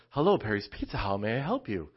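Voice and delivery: lightly imitated phone-order greeting; a hint of polite customer-service singsong; professional phone voice. Daughter answering the pizza shop phone, lightly imitated professional voice. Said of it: "this professional".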